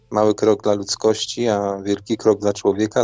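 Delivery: ordinary delivery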